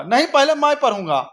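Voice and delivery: the comeback that tops the last one; hammed-up pretend quarrel, pushed further; escalating squabble. Two kids fight over newspaper.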